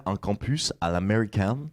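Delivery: attempted American pronunciation in French speech; drawn-out, clumsy American accent on "américaine"; bad English accent. Real, not acted. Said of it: "J'ai un très mauvais accent anglais".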